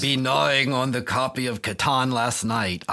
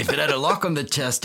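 put-on French accent; 5 semitones higher than usual. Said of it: "now I'm going into a French accent".

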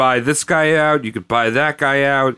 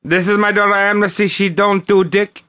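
mock father voice; 5 semitones higher than usual. Mock father presenting daughter.

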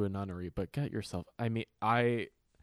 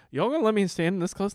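high, loud, wide-eyed disbelief; incredulous squeal at the guard; amazed disbelief; 8 semitones higher, 8 dB louder than usual. Retold or imitated. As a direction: marvel out loud at being allowed so close. Self-quote, amazed at museum guard.

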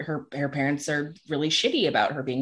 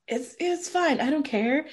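put-on drunk mom; 8 semitones higher, 4 dB quieter than usual. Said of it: "she's been drinking".

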